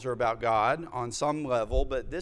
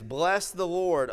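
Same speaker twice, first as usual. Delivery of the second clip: raised and slow, lifting the opening praise; proclaiming scripture; 5 semitones higher, 4 dB louder, slower than usual. Acted. Pastor begins reading the psalm to his congregation, proclaiming. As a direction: call out the first words of the psalm like a summons. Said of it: "And he begins".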